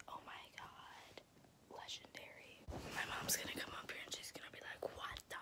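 very soft whisper. Real, not acted. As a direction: keep it hushed, almost no voice. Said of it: "I'm sorry I'm whispering".

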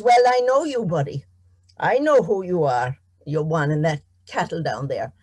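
a leprechaun playing friendly and bold; hearty leprechaun. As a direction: boom out a cheeky hello. Leprechaun greets farmer heartily.

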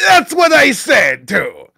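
high, loud silly voice; mock agreeing shout. Agreeing on the ban in chat, high mock shout.

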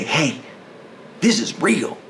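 high, loud, urgent appeal; oil worker urging Republicans, loud and high; earnest pitch. Retold or imitated. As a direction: plead with Republicans as an oil man. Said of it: "We could talk to them and say".

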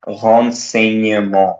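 slow renseignement, ent said as on; renseignement ending in nasal on. Shown as a demonstration. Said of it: "this E N T will be pronounced as on".

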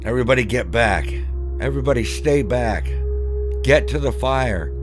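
high, loud, fast warning shouts; frantic yelling. Acted. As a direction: drive the kids back in alarm. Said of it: "He started yelling".

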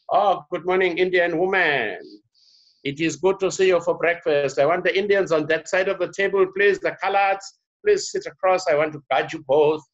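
high-pitched hammed-up host at breakfast; mock formal greeting. Mock greeting of own family by race.

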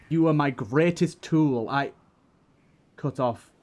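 steady, dramatic storytelling read; story narration. A narrator's reading. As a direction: draw the listener into the battle. Reads fan diary aloud.

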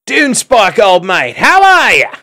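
very high, loud hail across water; hallooing. A narrator's reading. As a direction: call out to an old friend on shore.

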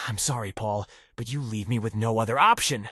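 quiet cold firing. Acted. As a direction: drop low and quiet before the blow. Boss about to fire him.

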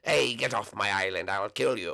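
threatening witch voice; a witch warning someone off; Petey. Shown as a demonstration. Petey orders an intruder off the island, witch voice. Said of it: "like, a witch voice".

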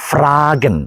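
ഫ്രാഗൻ with a strong r after f; German fragen with a forceful r. Shown as a demonstration. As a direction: hit the r in ഫ്രാഗൻ hard. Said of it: "ഫ്രാഗൻ ശക്തമായിട്ട് pronounce ചെയ്യുന്നു".

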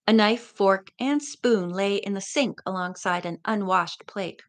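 steady read-aloud narration; story narration. A narrator's reading. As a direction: read the chapter to listeners. Reads the novel aloud.

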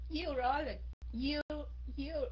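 imitating a student who stresses the first syllable, you; teacher imitating a classmate's wrong stress on the first syllable you; hammed-up wrong stress on you; mock wrong first-syllable stress. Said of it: "cổ nhấn cái âm đầu chứ không phải là âm thứ hai".

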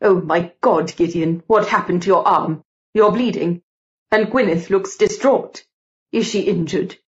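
lightly voiced older colleague, fretting; anxious Mister George. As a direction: fuss over them in a lightly put-on voice.

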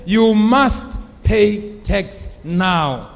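slow, weighty official demand; firm, measured order to pay; stern demand. Acted. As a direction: press each word as a stern tax collector. Tax collector demands payment in retold story.

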